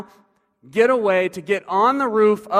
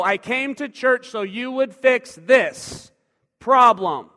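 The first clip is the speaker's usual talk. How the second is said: louder and higher, pleading in outrage; paralyzed man protesting to Jesus, louder and higher; indignant protest; 4 semitones higher, 5 dB louder, slower than usual. Acted. Paralytic demands healing.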